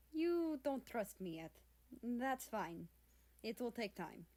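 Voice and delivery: a hint of Russian accent, patient. Russia to the wary cat, lightly Russian-accented. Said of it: "spoke with a heavy Russian accent".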